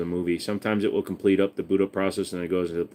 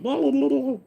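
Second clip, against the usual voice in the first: mocking blah blah. Mocking chatter.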